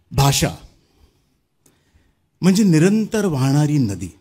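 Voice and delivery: measured declamation with weighty pauses; poem recitation. Acted. Poet to audience on language as a flowing river, poetic recitation. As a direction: recite it phrase by phrase, each falling to rest.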